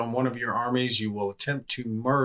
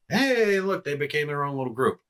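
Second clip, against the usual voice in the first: surprised; 4 semitones higher than usual. Real, not acted. His split army appears.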